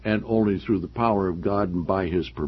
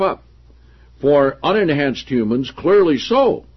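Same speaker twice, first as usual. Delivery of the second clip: projected, deliberate reading of a book; emphatic read-aloud; 5 semitones higher, 6 dB louder than usual. Acted. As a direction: read the passage out to the room with emphasis. Reads book passage aloud.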